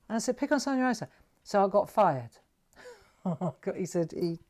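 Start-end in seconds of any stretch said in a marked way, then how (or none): 0.4-1.1 indignant retold challenge. Re-enacts challenge to foreman.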